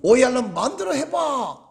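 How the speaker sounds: half-hearted defiant mock shout; mock angry yell. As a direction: imitate an indignant shouter without full volume. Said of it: "더 큰 목소리로 소리 지르면서".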